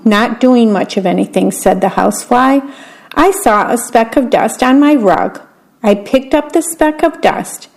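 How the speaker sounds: put-on reading a picture book aloud to children; story narration. A narrator's reading. Volunteer reader telling children a bedtime story, gentle narration.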